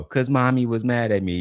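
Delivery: lightly voiced little kid; a hint of a whiny child. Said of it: "said my comment in a little kid voice".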